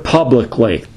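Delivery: "publicly" picked out with deliberate emphasis; stress on "publicly". Shown as a demonstration. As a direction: lean on the word "publicly". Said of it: "I want to emphasize the word".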